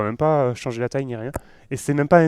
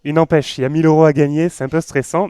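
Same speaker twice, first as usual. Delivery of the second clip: tags: raised voice over music; 2 semitones higher, 6 dB louder than usual. Real, not acted. Still commenting over loud contest video.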